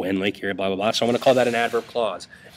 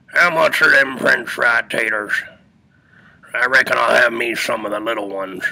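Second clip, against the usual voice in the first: Carl impersonation; 4 dB louder than usual. Retold or imitated. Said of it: "I do a pretty spot-on Carl impersonation".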